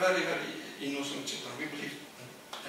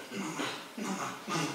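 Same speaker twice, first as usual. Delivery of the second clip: cat saying mama. Retold or imitated. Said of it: "kept hearing this word".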